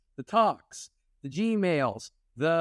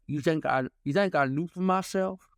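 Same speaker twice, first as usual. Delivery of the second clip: gruff bulldog voice. Retold or imitated. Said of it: "talks like a bulldog".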